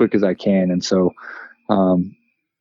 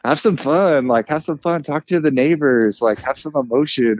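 higher-pitched imitation of a coaxing wife; urging wife; 5 semitones higher than usual. Wife nudging her reserved husband to have fun, imitated higher. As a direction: lightly urge him to loosen up. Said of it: "She gets all excited".

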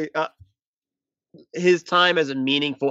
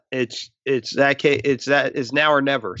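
false starts, restarting the phrase; stumbling stutter. Real, not acted. Podcaster tripping over his point to co-host, stuttering. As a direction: trip over the opening words before finding the line. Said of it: "Sorry, I'm stuttering".

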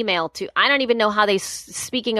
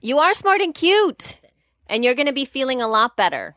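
reassuring; 4 semitones higher than usual. Real, not acted. Friend reassuring her.

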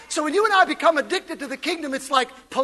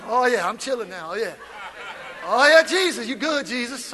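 lower, relaxed mock bliss; chilled out worshipper; 4 semitones lower than usual. Worshipper relaxed at church, low mock bliss. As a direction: lean back satisfied. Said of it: "You're like".

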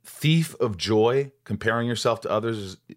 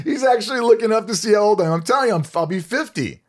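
laughing excitedly; 12 semitones higher, 6 dB louder, faster than usual. Real, not acted. Friend looking up his age.

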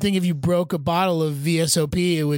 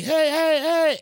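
retold yelling; 11 semitones higher, slower than usual. Guy yelling after someone who bumped him, mock yell. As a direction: imitate someone calling urgently after you. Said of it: "yelling at me".

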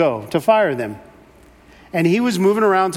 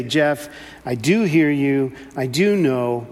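tender reassurance; 5 semitones lower, slower than usual. Retold or imitated. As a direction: speak it like a comforting father. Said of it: "to say".

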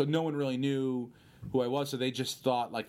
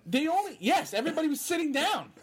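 high, raised-voice comic relief; emphatic agreement; 4 dB louder, faster than usual. Real, not acted. Guest agreeing he got to sit down, high exclamation.

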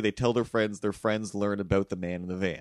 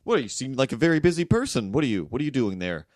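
busy Torontonian; 3 semitones higher than usual. Acted. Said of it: "But then I hit Toronto".

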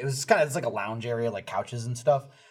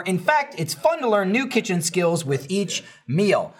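smooth, practised sponsor read. Acted. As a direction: sell it like a podcast sponsor spot. Reads a sponsor ad.

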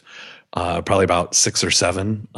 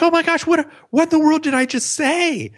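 much higher, alarmed inner voice; retold panic. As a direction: catch yourself in sudden alarm. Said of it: "And I'm like".

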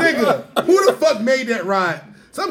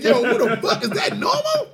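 mock alarm.

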